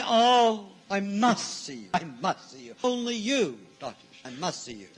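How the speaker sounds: urgent pleading that drops away; mock pleading. Clients begging the doctor to see them, mock pleading. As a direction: imitate a desperate client begging for an appointment.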